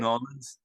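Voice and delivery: "Nolans" run together as one short word; local Louisiana pronunciation. Shown as a demonstration. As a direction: say "Nolans" the local way, as two syllables. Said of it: "Say it right".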